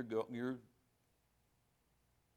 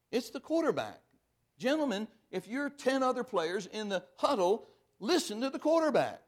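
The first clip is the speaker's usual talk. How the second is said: 1 emphatic; 5 semitones higher, 3 dB louder than usual. Real, not acted. Preacher hammering football metaphor.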